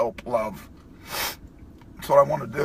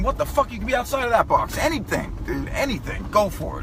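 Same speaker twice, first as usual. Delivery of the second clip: getting emotional; 10 semitones higher than usual. Real, not acted. Man urging viewers out of the box, getting emotional. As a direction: voice climbing high with real emotion. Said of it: "Shit, I'm getting emotional".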